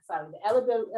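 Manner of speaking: trips over the word eligible and cuts it off; tongue-tied, catching breath midword; stumbling false start. Real, not acted. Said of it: "I can't even talk".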